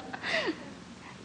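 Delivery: cracking up at her own pun, voice lifted high; laughing while talking. Real, not acted. Teacher laughing at own joke.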